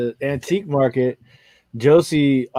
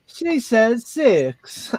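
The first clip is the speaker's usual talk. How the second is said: high, slow, amused aside; high slow mock whisper-tell; 9 semitones higher, much slower than usual. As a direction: hold back a laugh as you report it. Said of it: "She says".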